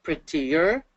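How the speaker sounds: PRETTIER sounded out as pre-tti-er; teacher's three-beat "Prettier"; syllable by syllable. Shown as a demonstration. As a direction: split "Prettier" into three clear beats. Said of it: "three syllables".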